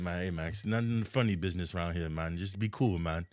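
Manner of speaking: imitated Jamaican-accented warning to behave; a rapper's Jamaican accent. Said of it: "that's not how you sound when you talk".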